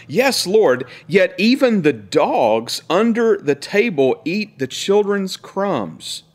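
high, slow pleading plea; pleading woman. Acted. Gentile woman begging Jesus, high and slow. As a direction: beg humbly as the woman. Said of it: "it says, "But she answered him".

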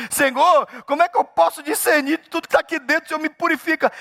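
impassioned psalm paraphrase; David. Acted. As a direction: cry out to God, high and urgent. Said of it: "Olha o que o Davi tá dizendo".

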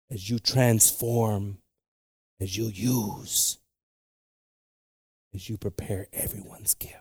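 very slow, fading to a whisper; slow right down and fade to a whisper; slow fading prayer. Real, not acted. Preacher praying to God, slowing into a whisper.

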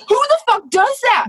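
high, loud indignant outburst; outraged. Real, not acted. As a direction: demand it in loud disbelief. Outraged rant about a guest.

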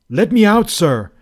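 insist, furious; angry demand. A narrator's reading. Trapped guest angrily demanding release from host. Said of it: "I repeated angrily".

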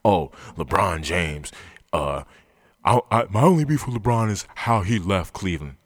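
lightly mock a whiny fan. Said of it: "it's asinine".

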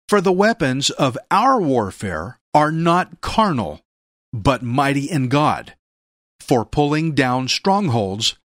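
slow, solemn scripture reading. Acted. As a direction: read each phrase slowly and weightily. Reads scripture aloud.

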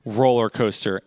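slow, drawn-out begging plea; mock tearful plea, stretched out slow; pleading. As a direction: beg her like you're close to tears. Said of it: "begging and pleading with her".

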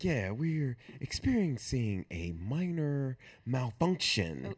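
slow pilot over the intercom; calm captain announcement, drawn out; pilot cockpit headset. Retold or imitated. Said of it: "Give me your best pilot voice".

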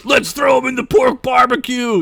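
cackling hag calling for a barbecue, hammed-up yell. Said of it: "yelled a hag".

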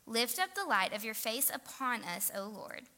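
measured, earnest reading aloud; deliberate public Bible reading; scripture reading. A narrator's reading. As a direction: read the psalm out to a congregation, phrase by phrase. Reads a psalm aloud.

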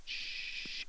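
unvoiced falling hiss for the graph; whoosh drop. Shown as a demonstration. Preacher mimics the graph dropping with a hiss. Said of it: "it went like this".

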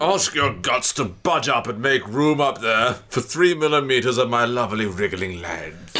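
lightly princely Cockney voice. Acted. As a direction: deliver it in a measured Cockney put-on. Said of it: "I think that voice works perfectly well".

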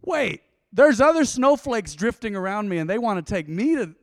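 rising to a loud high whine at the end; mock desperate plea. Pastor mocking his young self, rising to a whiny yell. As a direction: ham up a needy young man begging.

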